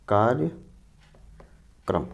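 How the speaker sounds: कार्यक्रम stretched out very slowly; slow dictation. Shown as a demonstration. Teacher dictating the correct word to students, very slowly. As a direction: draw out each syllable of कार्यक्रम. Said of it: "कार्यक्रम सही लिखा हुआ है".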